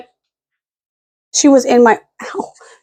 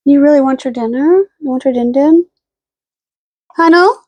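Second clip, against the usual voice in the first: playful pet-parent voice; pet talk; 4 semitones higher than usual. Real, not acted. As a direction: coax the dog about dinner. Asking the dog about dinner.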